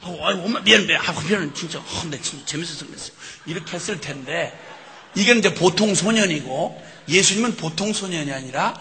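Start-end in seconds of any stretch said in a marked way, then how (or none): 0.0-3.1 put-on ordinary boy apologizing. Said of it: "다른 소년들 같았으면".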